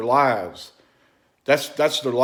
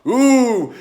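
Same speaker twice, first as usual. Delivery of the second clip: louder, drawn-out mock alarm; loud mock panic over Kratom; mocking fake news; 6 dB louder, much slower than usual. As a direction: ham up the scaremongering news. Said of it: "fake news trying to go".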